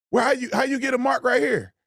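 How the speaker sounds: high, disbelieving yell; incredulous shout. Real, not acted. Streamer yelling at the woman in the clip, incredulous.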